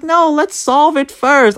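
voicing Mart.

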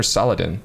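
Saladin ending in a short, unstressed "din"; chosen pronunciation. Shown as a demonstration. Host tries the other version, Saladin with short "-din". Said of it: "It's definitely Saladin".

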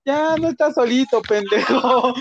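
high put-on voice for the cat comforting him; playful high cat voice; cat's voice. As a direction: lightly voice a cat consoling a drunk kid. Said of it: "el gato ... diciéndome".

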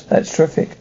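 dry, whispered sarcasm; mock enthusiasm, barely voiced; sarcastic. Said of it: "There's no need to be sarcastic".

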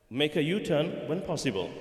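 measured, lightly voiced sat nav lady; polite sat nav lady. Sat nav lady correcting a driver's wrong turn, politely. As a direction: imitate a polite navigation voice, without raising it. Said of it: "Very politely".

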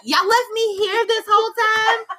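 mock whiny teen. Sister imitating her brother left home alone, mock whining. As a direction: play the abandoned kid, hammed-up. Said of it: "He was like".

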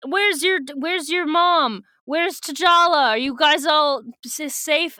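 high, drawn-out worried questioning; acted urgent worry. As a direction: play someone urgently checking on everyone. Retelling character's urgent questions.

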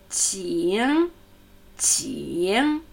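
"Qing" opening on a soft ch sound. Shown as a demonstration. Teacher showing the very first sound, soft ch in "Qing". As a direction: say "Qing" slowly, soft initial, dipping tone. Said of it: "das ist ein weiches Ch".

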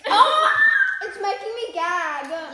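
loud gagging cry on sour candy. Real, not acted. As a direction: choke it out as the sourness hits.

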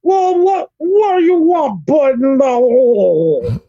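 put-on character voice. Impression after Cosby shout-out.

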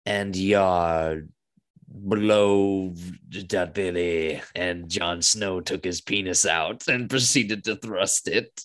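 slow, drawn-out parody of fantasy prose; hammed-up reading from an epic, words stretched; mock book reading. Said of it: "reading about".

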